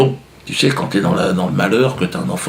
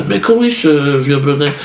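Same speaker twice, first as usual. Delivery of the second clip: slow Swiss imitation; 4 semitones higher, 3 dB louder than usual. Shown as a demonstration.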